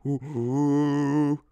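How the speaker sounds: ooh sucked in on the breath; inhaled monkey hoot. Shown as a demonstration. Showing viewers the breathed-in monkey hoot. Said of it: "you breathe back in".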